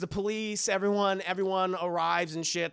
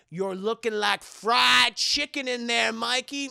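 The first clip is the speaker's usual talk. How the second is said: slow, loud teasing line; slow taunting quip; 3 semitones higher, 4 dB louder than usual. Retold or imitated. Kevin taunting burnt Michael, slow mock tease. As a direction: drawl the joke at the corpse. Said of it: "he literally says".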